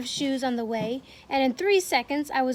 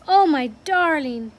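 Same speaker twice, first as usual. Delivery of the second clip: tender cry; 2 semitones higher, 8 dB louder than usual. Acted. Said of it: "she cried".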